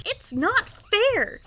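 put-on high, drawn-out boyish whine; childish cry of protest. A narrator's reading. Young duke out of arrows, crying in protest. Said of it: "cried the Duke".

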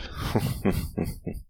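whispered laugh in a run of puffs; airy, intimate chuckle; breathy chuckle. Pretend. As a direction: laugh under your breath, delighted. Delighted while whispering to lover.

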